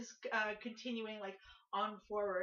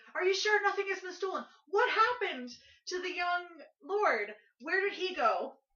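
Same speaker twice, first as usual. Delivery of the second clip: loud, high crowd yelling and clamor; 9 semitones higher, 8 dB louder than usual. Game master voicing the crowd answering Roger's announcement, yelling out. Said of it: "and they're yelling out".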